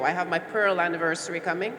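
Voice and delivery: usual speaking voice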